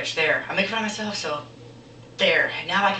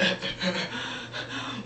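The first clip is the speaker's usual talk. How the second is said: soft fake sobs; mock sobbing; 7 dB quieter than usual. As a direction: imitate a crybaby's sobbing. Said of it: "And he's crying".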